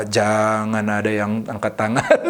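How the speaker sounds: slow, low pleading with a laugh; retold silent prayer, drawn out and half laughing; inward plea. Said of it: "Dalam hati saya berdoa".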